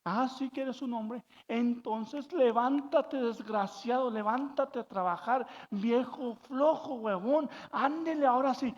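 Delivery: mock-angry mom, stretching the insults; angry mother. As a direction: scold your lazy grown son. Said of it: "la mamá se enojó".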